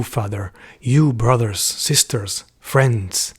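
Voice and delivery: measured recitation, short phrases set apart; lightly solemn verse reading; poem reading. Acted. Reads the second poem aloud.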